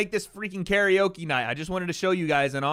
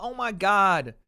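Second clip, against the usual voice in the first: lightly voiced scandalized Twitter crowd, drawn-out "Bryce kills dogs"; imitating sassy online outrage; mock sassy critics. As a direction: mimic outraged Twitter users, half-mocking. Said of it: "people getting a little sassy".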